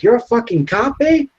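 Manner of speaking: stunned cholo. Retold or imitated. Cuffed cholo realizing the dad is a cop, high and incredulous. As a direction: sound shocked like a cuffed cholo. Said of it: "And then he's like".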